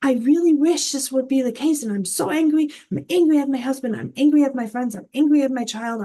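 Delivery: half-acted frustrated outburst, speeding up; angry venting. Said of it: "and you even get angry".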